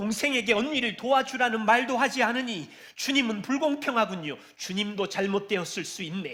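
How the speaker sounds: resentful, bitter tone, words pouring out. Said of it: "원망을 쏟아내는".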